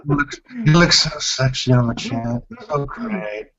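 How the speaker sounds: half-hearted female impression, laughing; a lightly feminine flirt breaking into laughter. Shown as a demonstration. Flirting with Malcolm on the chat, half-hearted laughing female voice. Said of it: "let's see your female voice".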